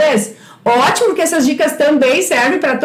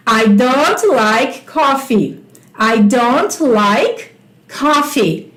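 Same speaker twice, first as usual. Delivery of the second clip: very slow, each word set apart; slow teacher demo; 3 semitones lower, much slower than usual. Shown as a demonstration. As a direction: spell the sentence out slowly for the class. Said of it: "Você acrescenta o don't". (professora dita bem devagar para a turma)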